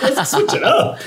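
high and giggly, bubbling over; excited, laughing. Retold or imitated. A fan cheering the song choice, high and laughing.

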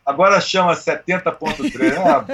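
amused, chuckling through words; laughing while talking. Real, not acted. Mocking new race name.

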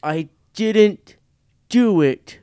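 high, loud, drawn-out creature cry; high beast voice, stretched and loud; beast's protest. Acted. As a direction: wail it slowly as a captive beast. Beast gives it as its name.

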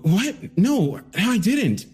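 startled denial. Acted. Suspect denying the killing to the detectives, stunned and slow. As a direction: shaken young man caught off guard.

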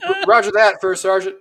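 laughing mock acknowledgment. Retold reply with laughing.

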